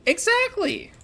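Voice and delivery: high mock outrage. Mock outrage about window tint.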